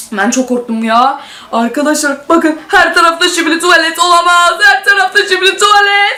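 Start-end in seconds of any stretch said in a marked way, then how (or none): 1.5-6.2 alarmed shouting. Real, not acted. Toilets everywhere, alarmed.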